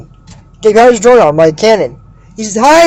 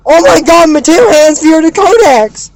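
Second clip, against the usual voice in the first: mock shock; 5 semitones higher than usual. Recapper mock-shocked at plot turn.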